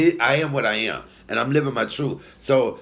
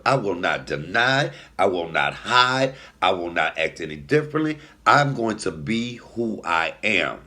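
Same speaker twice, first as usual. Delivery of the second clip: self-vow. Retold or imitated. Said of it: "I said to myself".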